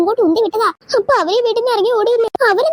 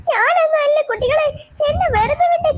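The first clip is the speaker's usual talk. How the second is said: crying plea; 6 semitones higher than usual. Acted. Accused mother begs children.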